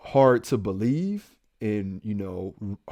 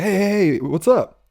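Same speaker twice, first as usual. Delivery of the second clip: too-casual hey, pitched up; acting weird; 6 semitones higher, 4 dB louder than usual. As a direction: imitate someone caught off guard playing it casual. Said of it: "Man, he's acting weird".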